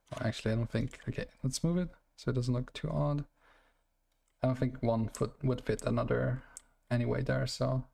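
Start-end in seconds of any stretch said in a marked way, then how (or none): 4.4-7.8 mumbling, slurring the words; slurred words. Real, not acted. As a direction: let the words run together. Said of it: "I'm just slurring my words".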